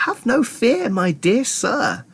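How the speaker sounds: high, slowing reassurance; unhurried, lilting reassurance; calm. A narrator's reading. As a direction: soothe him, drawing out the end. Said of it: "said Mister Wonka calmly".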